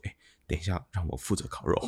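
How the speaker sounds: deep, low whisper under the breath. Retelling how a guy quietly asked the other guys to let him grill: imitating a low voice. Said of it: "很低沉的声音协调说".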